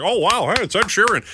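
breezy high cheery celebrity greeting; mock casual pop star. Host imitating a singer strolling into a wedding, breezy and cheery. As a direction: play it as a chummy star crashing in. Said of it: "a singer walks in and was like".

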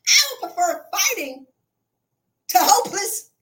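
high, loud insistence; loud emphatic preference; emphatic declaration. Real, not acted. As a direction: declare it with force.

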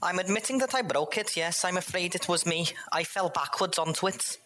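high, overly polite apology; apologetic Jeff. Acted. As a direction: grovel politely.

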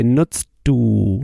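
nutzt du run together as one word, the T flowing into du; linked nutzt du. Shown as a demonstration. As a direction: blend "nutzt du" so the T and D merge. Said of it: "You see how I almost go from nutzt du".

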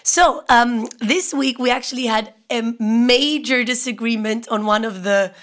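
coarse, sick voice; hoarse from a cold. Real, not acted. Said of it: "So sorry if I sound very coarse".

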